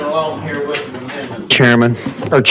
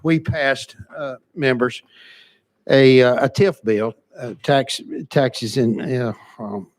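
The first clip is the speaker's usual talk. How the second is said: breathless, catching breath between phrases. Real, not acted. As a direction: talk while out of breath from rushing. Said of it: "I'm out of breath".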